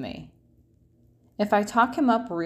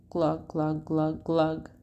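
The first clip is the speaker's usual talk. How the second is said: fish glugs; 2 semitones lower, slower than usual. Acted. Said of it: "he mouths".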